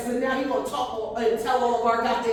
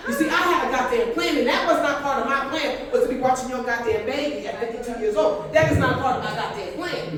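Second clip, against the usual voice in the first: emphatic rant. Real, not acted. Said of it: "repeats the punchline louder".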